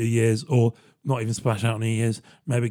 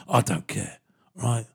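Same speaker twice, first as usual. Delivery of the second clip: mock hard-nut threat; 4 semitones lower than usual. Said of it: "Jason says".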